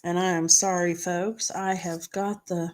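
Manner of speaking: talking round a lozenge; sucking a hard candy. Real, not acted. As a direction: cough drop in the mouth. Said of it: "the cough drop in my mouth".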